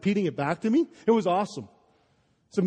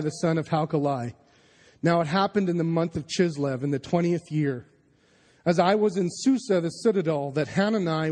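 lower, measured Bible reading voice; scripture reading; 3 semitones lower than usual. Acted. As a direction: read the passage steadily, like the lectern text. Reads scripture aloud.

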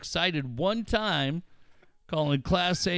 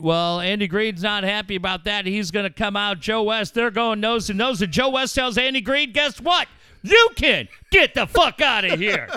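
play-by-play call; 4 dB louder than usual. Pretend. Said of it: "it would kinda be my catchphrase".

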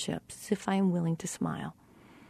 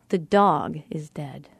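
slow, weight on "dog"; stress on DOG; 4 semitones lower, slower than usual. Shown as a demonstration. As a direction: lean slowly on the word "dog". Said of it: "we know this by inflection".

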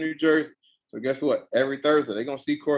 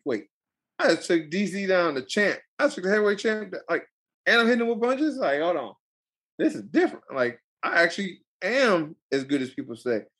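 excited disbelief; 4 semitones higher than usual. Retold or imitated. Excited realization retold.

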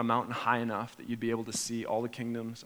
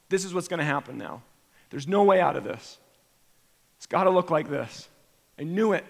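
authoritative prophet; 4 semitones higher, 5 dB louder than usual. Retold or imitated. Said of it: "we speak with authority like a prophet".

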